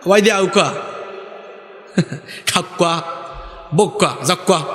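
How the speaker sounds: separated Sylheti phrases, lightly amused; Sylheti dialect. Shown as a demonstration. Preacher entertains congregation with regional phrases, Sylheti dialect. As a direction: demonstrate Sylheti invitations one by one. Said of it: "আবার সিলেটে গেলে আপনাকে খুব সুন্দর বলবে".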